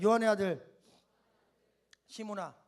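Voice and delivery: low, gentle voice of Jesus asking; voicing Jesus. Shown as a demonstration. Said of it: "한번 따라합시다".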